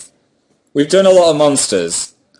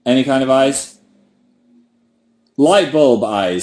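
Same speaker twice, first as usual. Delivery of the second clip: talking round a pen held in teeth; words muffled by a pen between the teeth; pen in mouth. Real, not acted. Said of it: "I can't do the mouth thing anymore".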